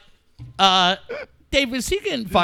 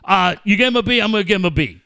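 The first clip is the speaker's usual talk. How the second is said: mock copycat agreement; 3 dB louder, faster than usual. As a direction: agree by rote, mockingly. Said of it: "never once did either one of those two dickheads go".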